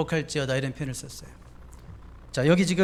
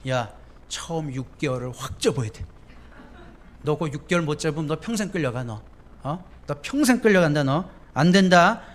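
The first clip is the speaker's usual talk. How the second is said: parent's worldly advice. Retold or imitated. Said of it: "이렇게 말한대요".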